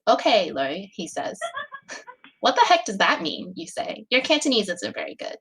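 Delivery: steady, even read-aloud narration; story narration. A narrator's reading. Reading her own fic aloud to friends, calm narration.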